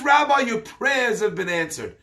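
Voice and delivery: mildly elated report; retold excitement. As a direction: act out bringing the rabbi wonderful news. Retold joyful report to the rabbi.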